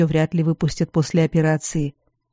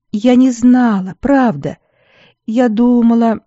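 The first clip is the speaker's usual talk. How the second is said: higher, louder, slow tearful plea; begging to be believed, teary; tearful girl; 6 semitones higher, 4 dB louder, slower than usual. A narrator's reading. Girl still crying.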